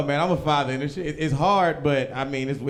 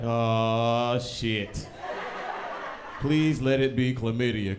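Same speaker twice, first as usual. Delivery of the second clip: panicked dread. Retold or imitated. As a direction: dread the phone call, then beg. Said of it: "I was like".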